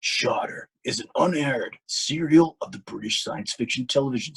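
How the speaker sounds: lightly done trailer announcer voice; B-grade movie trailer voiceover. Shown as a demonstration. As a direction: read it like a cheesy action trailer. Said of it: "I'm gonna give you a B-grade movie trailer voiceover".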